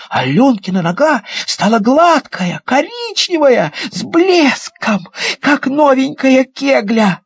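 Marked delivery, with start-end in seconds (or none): none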